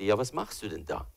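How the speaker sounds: a still small voice asking; quiet inner voice. Retold or imitated. God's voice asking him in prayer, very softly. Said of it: "wie eine Stimme zu mir sagte".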